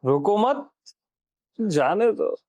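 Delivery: रोको मत lifted at the end, pause, जाने दो; pause after मत. Shown as a demonstration. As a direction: join मत to रोको with a rising end, then जाने दो apart. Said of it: "और हम क्या बोल रहे हैं".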